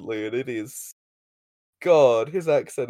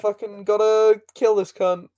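mock aggressive; 6 semitones higher, 5 dB louder than usual. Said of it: "the Rangers are like".

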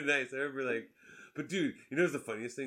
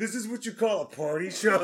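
condescending quote; 4 semitones higher, 5 dB louder than usual. Retold or imitated. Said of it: "she's like".

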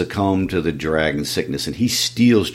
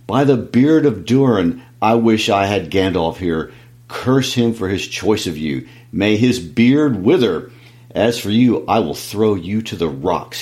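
a touch of raised fury, cursing; angry cry. Acted. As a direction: curse him, then threaten. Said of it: "he cried".

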